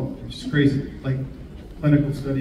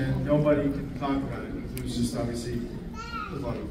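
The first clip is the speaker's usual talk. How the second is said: hushed, dropping to a whisper; 2 semitones lower, 9 dB quieter, faster than usual. Acted.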